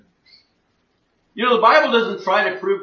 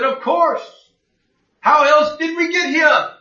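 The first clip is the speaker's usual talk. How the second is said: put-on retelling a friend's reply in a higher German accent; imitating an old German man, higher pitched; 6 semitones higher, 4 dB louder than usual. German friend on the phone explains his belief, German accent. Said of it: "In his strong German accent".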